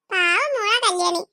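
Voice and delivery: slow, low, near tears; tearful. Acted. Mother pitying her daughter Kalyani, slow and tearful. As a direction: speak of the poor girl with a catch in the voice.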